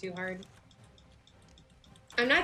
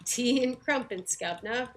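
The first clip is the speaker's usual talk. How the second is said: mock British accent; 4 semitones higher, 4 dB louder than usual. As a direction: put on a hammy British accent. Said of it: "To put on a British accent".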